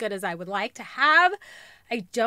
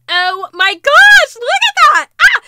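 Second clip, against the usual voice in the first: much higher, louder, slow gushing; thrilled squeal; 13 semitones higher, 16 dB louder, slower than usual. Real, not acted. Gushing to viewers over a shoe, thrilled squeal.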